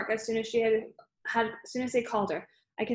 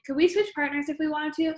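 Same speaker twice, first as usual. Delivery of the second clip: higher-pitched innocent request; feigned innocence; 6 semitones higher than usual. A narrator's reading. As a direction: ask sweetly, as if butter wouldn't melt. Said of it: "looking very, um, innocent".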